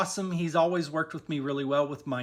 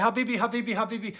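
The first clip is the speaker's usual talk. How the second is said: light, higher repeated endearment with laughter; imitated amused barber; 4 semitones higher, much faster than usual. Barber soothing the pranked customer, imitated amusement. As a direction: imitate someone talking through a laugh.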